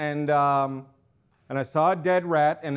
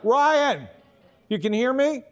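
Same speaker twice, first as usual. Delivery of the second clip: satellite phone delay; 3 semitones higher than usual. Acted. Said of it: "having some technical difficulties".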